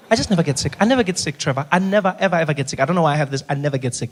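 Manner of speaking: lightly voiced stubborn mother; mom who never gets sick. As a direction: brag that you never get sick. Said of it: "you know those people".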